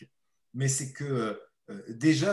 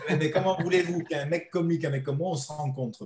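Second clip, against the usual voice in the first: rising amused laugh through the words; 3 semitones higher, 4 dB louder than usual. Real, not acted. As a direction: laugh while asking, pitched up and louder. Laughing at the odd couple. (en riant, voix montée et plus forte)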